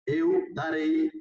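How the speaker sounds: eu darei drawn out slowly, eu lifted high; teacher's slow demo of "eu darei"; slow model pronunciation. Shown as a demonstration. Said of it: "Entonces, por ejemplo".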